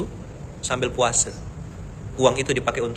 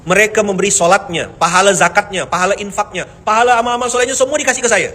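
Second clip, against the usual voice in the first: higher, louder, rising in fervour as the imam; fervent retelling; 6 semitones higher, 5 dB louder than usual. Retold or imitated. The imam explains his gift to his critics, fervently. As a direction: pour out the gratitude eagerly.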